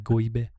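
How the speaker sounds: "goybe" with a y glide replacing the r; grandmother's Turkish pronunciation. Retold or imitated. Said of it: "That's how my grandmother used to say it".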